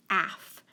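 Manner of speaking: "af" cut off from the rest of "after"; isolated "af" for spelling; first syllable alone. Shown as a demonstration. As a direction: say "af" as a separate syllable. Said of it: "we're gonna break it apart".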